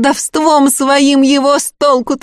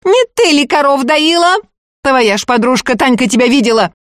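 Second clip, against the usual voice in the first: shouting over; 5 semitones higher than usual. Acted. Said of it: "перекрикивая Агафью".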